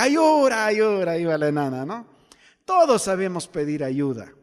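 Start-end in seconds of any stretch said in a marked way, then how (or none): 0.0-1.2 mock child's yell. Little girl chased by her father, mock yelling. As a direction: wail it out like a child calling for help. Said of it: "empezaba a gritar".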